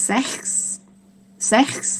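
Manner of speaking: "sechs" short, ending in a k-s hiss; German sechs demonstration. Shown as a demonstration. Teacher introduces German six, "sechs" with final hissed s. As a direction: model "sechs" crisply for learners. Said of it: "จะออกเสียงว่า".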